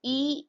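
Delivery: E said as a short "uh" schwa; French unaccented E. Shown as a demonstration. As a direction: say E as a neutral uh sound. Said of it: "E is pronounced as E".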